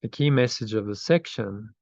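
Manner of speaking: measured reading for listeners to repeat; slow affirmation reading. Real, not acted. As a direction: read it out deliberately, pausing after phrases. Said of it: "so I'll read it slowly".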